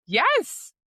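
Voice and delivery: sudden high, loud yes of recognition; excited yes. Real, not acted. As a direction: burst out agreeing. Excited agreement mid-story.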